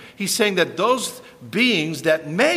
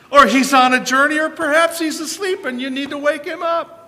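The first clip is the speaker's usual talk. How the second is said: higher, louder sarcastic taunt; mocking; 10 semitones higher, 7 dB louder than usual. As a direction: rub it in with scorn. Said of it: "Elijah mocked them".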